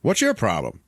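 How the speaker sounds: mildly confrontational retold question; curt challenge. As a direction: ask it as a first, milder challenge. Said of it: "And the guy's like".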